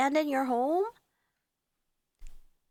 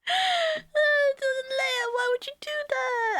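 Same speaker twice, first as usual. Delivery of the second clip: startled; 11 semitones higher, slower than usual. Real, not acted. Startled by viewer message.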